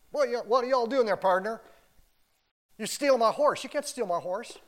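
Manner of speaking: hammed-up outraged cowboy; mock yell. Preacher plays a horse owner catching a thief, mock shout.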